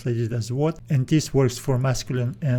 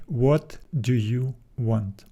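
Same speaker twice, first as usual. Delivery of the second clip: slow, careful model question; 2 semitones lower, slower than usual. Shown as a demonstration. Teacher modelling the English question slowly. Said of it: "we need to make it a question".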